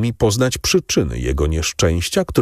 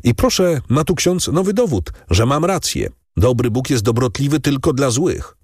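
a lightly voiced bitter innkeeper, pitched higher; lightly voiced old innkeeper railing at God, higher; 7 semitones higher than usual. Narrator voices bitter Kadrus.

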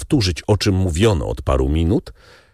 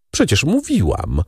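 calling out; 7 semitones higher than usual. A narrator's reading. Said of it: "zawołała pani de Villefort".

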